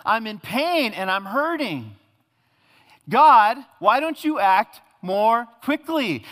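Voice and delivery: pained, high and loud pleading; a sufferer protesting to God in anguish; hurting cry. Acted. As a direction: cry out in pain at God, slowly. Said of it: "You say".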